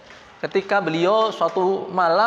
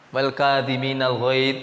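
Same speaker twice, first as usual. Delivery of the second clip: slow recitation; 7 semitones lower, slower than usual. Shown as a demonstration. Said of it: "Maca ke ayat".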